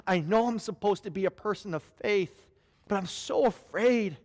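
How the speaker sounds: afraid prayer. Retold or imitated. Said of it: "you're afraid".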